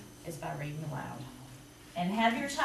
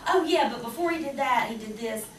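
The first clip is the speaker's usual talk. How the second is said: higher, louder burst of sudden remembering; imitating eager child; 5 semitones higher, 5 dB louder than usual. Child retelling a book to a parent, excited afterthought. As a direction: blurt it like a kid backtracking, then settle. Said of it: "and they'll go".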